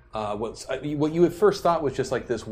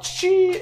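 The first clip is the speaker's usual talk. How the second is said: squirting sound effect; 7 dB louder than usual. Acted.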